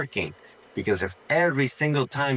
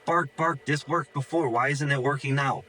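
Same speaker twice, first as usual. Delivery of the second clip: higher, pleading voice for the dog; frustrated dog voice; 4 semitones higher than usual. Pretend. A dog that cannot get its reward, pleading in a higher voice. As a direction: voice the dog, puzzled that barking stopped working. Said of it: "He's gonna go".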